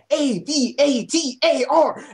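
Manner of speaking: "A V A T A R" slowly, letter by letter; spelling it out. Shown as a demonstration. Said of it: "not that hard to fucking pronounce".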